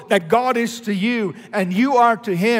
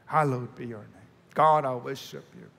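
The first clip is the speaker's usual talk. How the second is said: soft reverent prayer; 6 semitones lower, 6 dB quieter than usual. Shown as a demonstration. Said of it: "You could do it".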